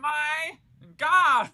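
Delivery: high sitcom catchphrase caricature; Janice. Acted. Repeating a Friends impression for co-hosts, high caricature. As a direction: exaggerate it in a high, annoying voice. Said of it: "after hearing me do that".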